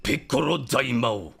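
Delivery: guttural, drawn-out villain voice; slow guttural anime villain; Cell, original broadcast. Acted. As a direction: growl it slowly from the throat. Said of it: "he was kinda more guttural".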